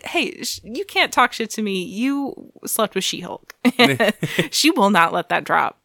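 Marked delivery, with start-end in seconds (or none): 0.0-3.5 sassy comeback. Retold or imitated. Jessica snaps back.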